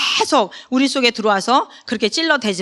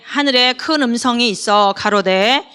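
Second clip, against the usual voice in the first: ordinary delivery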